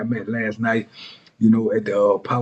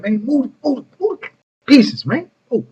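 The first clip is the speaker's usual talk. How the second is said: high, loud impatient yell; 13 semitones higher, 3 dB louder than usual. Retold or imitated. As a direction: hurry him up, annoyed. Impatient inmates yelling at chess.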